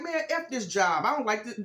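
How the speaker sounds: overdone take on a fed-up woman; off-target imitation. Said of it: "she didn't sound like that".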